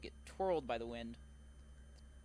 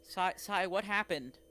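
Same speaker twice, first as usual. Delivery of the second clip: frightened lover; 6 semitones higher, 6 dB louder than usual. Acted. Revived lover panics.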